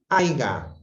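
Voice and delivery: Aiga said as a-i-ga, with a hard g; wrong form. Shown as a demonstration. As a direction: stress the g in Aiga. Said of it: "cuando es haya". (Aiga dicho a-i-ga, forma incorrecta)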